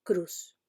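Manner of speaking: "cruz" ending in S, no TH; final S in "cruz", clipped; seseo pronunciation. Shown as a demonstration. Teacher showing the seseo speaker's word. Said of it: "el hablante con seseo".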